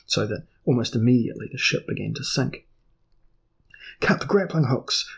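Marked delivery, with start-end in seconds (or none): 4.0-5.1 high urgent cry; cried out. Acted. Terrified earl cries orders to his men. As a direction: cry out in panic to the crew. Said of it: "cried Saxif Dan".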